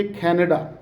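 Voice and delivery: "कनाडा" starting with a breathy "khae"; "कनाडा" with a puff after k; aspirated C. Shown as a demonstration. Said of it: "उसकी sound खा की sound निकालनी है".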